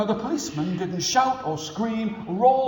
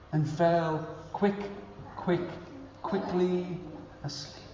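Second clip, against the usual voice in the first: lulling quiet narration; 2 semitones lower, 8 dB quieter than usual. A narrator's reading.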